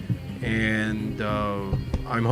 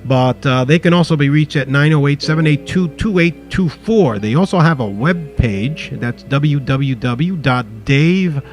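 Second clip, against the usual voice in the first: town crier; 7 dB louder than usual. Real, not acted. Loud shout-out with phone number.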